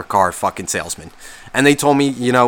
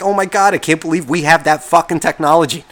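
higher, mock astonished; sarcastic amazement; 5 semitones higher than usual. Joking about the trunk to viewers in mock wonder. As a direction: gush with fake wonder. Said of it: "That was a joke".

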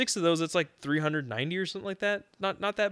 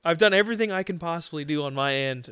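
mock exasperated rant; 3 semitones higher, 6 dB louder than usual. Friend playing the customer scolding the cashier, hammed-up loud rant. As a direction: vent at the cashier like you did everything right.

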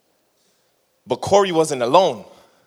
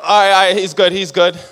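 excited cheering; 3 semitones higher, 4 dB louder than usual. Retold or imitated. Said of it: "I was like".

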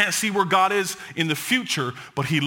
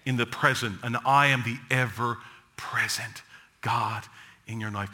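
God's voice; 4 semitones lower than usual. Retold or imitated. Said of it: "God has said".

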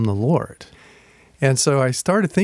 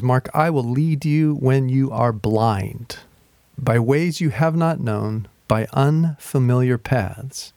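slow scripture reading; slower than usual. Acted. Verse read as God speaking.

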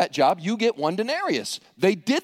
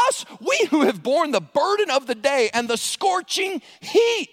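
slow, higher-pitched whining complaint; grumbling workers; 5 semitones higher, slower than usual. Acted. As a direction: whine about the unfairness. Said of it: "They grumbled at the master".

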